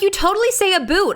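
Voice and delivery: high-pitched mimicry, "boot" with a long oo; mock a friend, saying "boot" with a long oo; mimicked accusing friend. Friend accusing speaker of a Canadian accent, "boot" with long oo. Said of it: "told me that I had a Canadian accent".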